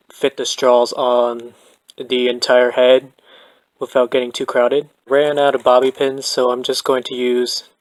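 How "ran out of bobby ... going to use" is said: breathless, winded from long work; out of breath. Real, not acted. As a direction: talk while slightly winded. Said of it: "I'm getting out of breath".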